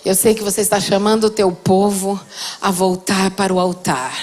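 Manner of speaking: voz de oração, mais baixa e lenta. Real, not acted. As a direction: ore devagar, com reverência. Oração final. (pregadora conduzindo a igreja em oração, voz baixa e reverente)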